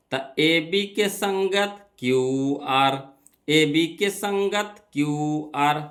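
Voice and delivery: drawn-out, deliberate teaching delivery; slow dictation. Real, not acted. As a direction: spell it out slowly for note-takers. Dictating corresponding sides to students.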